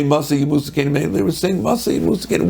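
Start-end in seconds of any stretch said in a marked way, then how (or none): 0.0-1.1 a cold, grasping "Masa Yimusa Kenim"; mean way. Shown as a demonstration. Brothers wishing the elders gone, said meanly. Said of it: "they weren't saying in the mean way". 1.6-2.5 a kind, earnest "Masa Yimusa Kenim"; positive way. Shown as a demonstration. Brothers preparing to lead, said with good intent. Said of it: "they said it to me in a positive way".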